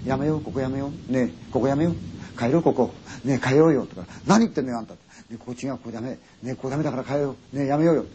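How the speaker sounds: hushed, trembling plea to leave; frightened pleading. Acted. Frightened girl begs her friend to leave the inn, hushed pleading. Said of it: "女の子がわらわらなんか震えてる".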